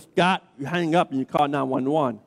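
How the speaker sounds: a hint of an old redneck telling him off. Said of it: "in his old redneck voice".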